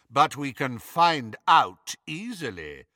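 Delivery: a hint of a cold aristocrat; lightly voiced Lucius. Lucius calmly cuts in on Bellatrix, lightly voiced cold lord. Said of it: "came Lucius's voice".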